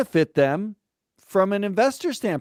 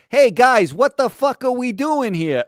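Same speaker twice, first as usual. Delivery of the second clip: louder, higher mock Worcester bluster; Worcester accent; 7 semitones higher, 5 dB louder than usual. A losing coach from Worcester rallying his guys, loud Worcester accent. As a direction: play a blunt Worcester guy calling out the team. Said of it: "lean deep into his Worcester accent".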